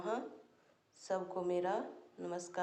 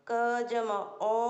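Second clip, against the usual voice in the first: slow spelling; slower than usual. Shown as a demonstration.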